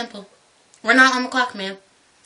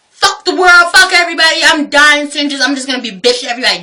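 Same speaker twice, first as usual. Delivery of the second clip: mock bitter old folks. Imitating cranky old people who don't care, mock bitter. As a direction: rattle it off like you're done with everyone. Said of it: "the other half of them who are just like".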